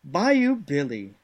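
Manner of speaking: animated, swinging manual narration in a put-on accent; hammy storytelling read. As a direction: sell it like a hokey Southern narrator. Reads game text in character voice.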